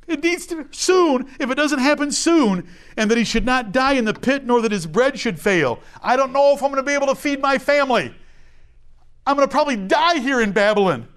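high, fast, fretting voice of an anxious exile. Retold or imitated. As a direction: rush it like a worried captive. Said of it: "here's an anxious Jew in Babylon".

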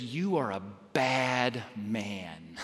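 a quiet, wounded Dorothy; hurt disappointment. Retold or imitated. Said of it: "in her anger and incredible disappointment".

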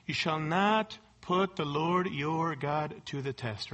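low, slow, solemn rebuke; Jesus's reply. Pretend. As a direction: answer the tempter with calm weight. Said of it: "And what did Jesus respond?".

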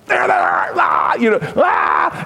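light up at seeing loved ones; joyful surprised greeting; delighted recognition. Retold or imitated. Spotting family in the store.

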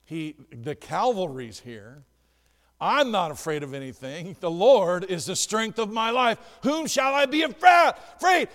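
rising to a loud triumphant cry; confident believer. Pretend. Believer under dark clouds declares no fear, building loud. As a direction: build from calm to a shout of faith.

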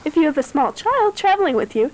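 flight attendant. Pretend. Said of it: "stewardess voice".

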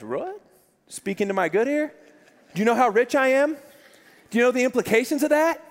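mock disbelief, pitch climbing; rising, hammed-up incredulity; incredulous protest. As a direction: act out the rich kid's indignant shock. Acted shocked reply of rich kid.

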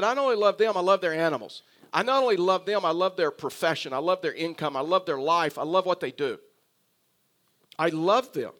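loud, insistent declaration; emphatic love. Acted. God declaring love for Nineveh's people, loud and emphatic. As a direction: hammer out each declaration of love.

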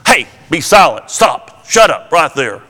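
a sharp mock shout of rebuke; stern rebuke. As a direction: snap it like telling a demon to shut up. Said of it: "But Jesus rebuked him".

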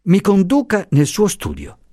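high, bright command; spring on the idea; sudden inspiration. Acted. Luisa with a sudden idea, high and eager. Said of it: "Il suo viso si illuminò".

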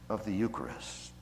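breathy whisper of the quote's key words. Acted. Preacher quoting Ramsey to the congregation, whispered. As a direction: drop to a hush for the Eucharist. Hushed close of quoted theologian.

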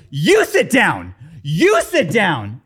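slow mock tough guy. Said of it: "and then goes".

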